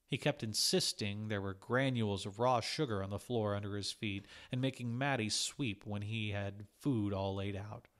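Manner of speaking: usual speaking voice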